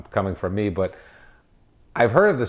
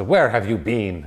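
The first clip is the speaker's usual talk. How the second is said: mock-annoyed, slow question, "been" as "bean"; mildly pissed off; slower than usual. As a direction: spell it out slowly, a touch put out. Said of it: "if you're a little pissed off".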